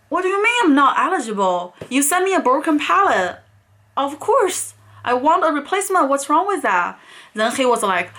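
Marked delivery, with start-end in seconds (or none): 0.1-6.9 pitched up and fast, indignant disbelief; exasperated retort. Retold or imitated. Customer snapping back at the agent, indignant and pitched up. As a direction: push back hard, can't believe what you're hearing. Arguing with rude customer service.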